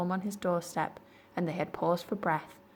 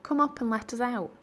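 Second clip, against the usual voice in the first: shouting; 6 semitones higher than usual. Acted. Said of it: "shouted Cyril".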